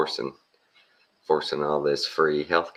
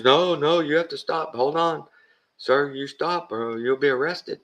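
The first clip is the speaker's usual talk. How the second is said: high mock cop voice barking orders; mock deputy order; 12 semitones higher, 3 dB louder than usual. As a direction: play the officious deputy, pitched way up. Voicing deputy's stern order.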